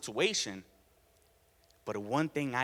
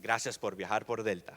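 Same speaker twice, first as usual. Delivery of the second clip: low, smooth in-flight announcement; like a captain on the intercom; Spanish pilot announcement; 6 semitones lower than usual. Retold or imitated. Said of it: "sounded like a Spanish pilot".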